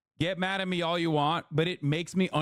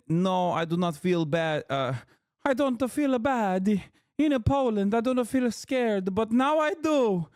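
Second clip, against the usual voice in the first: mocking the Italian woman; 7 semitones higher than usual. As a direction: parrot her answer in a high mocking voice. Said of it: "Remember how they said".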